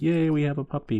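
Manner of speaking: high, loud mock cheer; imitated childlike delight; happy kids. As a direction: cheer like a kid given a puppy. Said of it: "the kids were happy".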